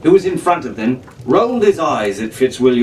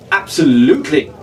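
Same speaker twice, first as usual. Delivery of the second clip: cheerful; 2 semitones higher, 3 dB louder than usual. A narrator's reading. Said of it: "Fitzwilliam said cheerfully".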